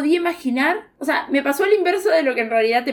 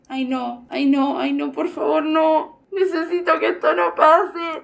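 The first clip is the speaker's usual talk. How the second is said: anxious pleading; 3 semitones higher than usual. Retold or imitated. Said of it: "yo miraba el televisor fijo como".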